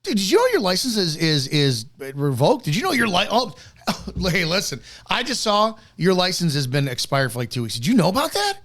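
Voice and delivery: mock officer, high and sing-song on each question; a hint of a robotic cop, mocking. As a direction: parody a tone-deaf cop who repeats himself. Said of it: "Inflection in your voice".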